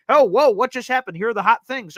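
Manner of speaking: mock post-game show excitement; mock excited reaction. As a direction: play it like a hyped post-game host. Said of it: "it's gonna be like".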